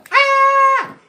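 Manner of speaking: high loud startled yelp; startled frog. Acted. Little Frog startled by the lion, high yelp. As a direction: jump with fright.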